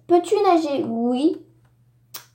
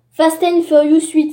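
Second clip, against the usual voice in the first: Fast and Furious huit said louder and clearer; louder repeat; 2 semitones higher, 6 dB louder than usual. Shown as a demonstration. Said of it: "si vous avez mal compris". (répété plus fort et articulé)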